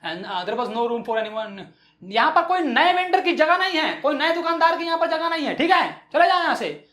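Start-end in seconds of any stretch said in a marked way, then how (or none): 2.0-6.8 high, scolding street seller; mildly hammed-up telling-off; mock shouting vendor. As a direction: order him away in a raised pitch. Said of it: "बहुत ही चिल्ला के बोलती है".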